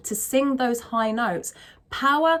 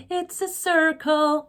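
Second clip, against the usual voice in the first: American hard R; 6 semitones higher, slower than usual. Shown as a demonstration. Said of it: "I don't sing like that".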